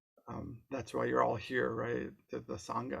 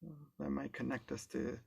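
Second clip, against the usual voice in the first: calm, unhurried guide with long pauses; guided meditation. Real, not acted. Guide leading an online group into body awareness, calm guided meditation. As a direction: ease them gently through it, leaving space between phrases.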